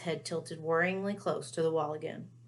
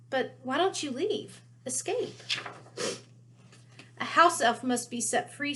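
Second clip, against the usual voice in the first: house elf voice; 3 semitones higher than usual. Acted. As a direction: play the timid house elf, pitched up. Dobby voiced.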